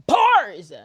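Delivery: high, very loud bellow; exaggerated shout. Shown as a demonstration. Streamer playing with a word, exaggerated shout. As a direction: punch the word out at full volume.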